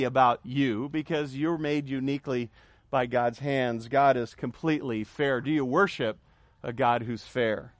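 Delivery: hushed low question. Acted. Preacher drops voice for effect.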